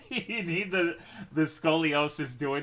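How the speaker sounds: giggling through the words; laughing. Real, not acted. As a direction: laugh while explaining. Laughing at own vampire joke.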